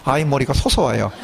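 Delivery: words broken up by laughs; laughing while talking. Real, not acted. Mother laughing while telling the congregation about her son. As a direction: giggle through the funny image.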